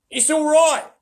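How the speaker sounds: loud, high joyful shout of a beaver. Acted. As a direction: call out with relief from outside. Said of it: "he was shouting".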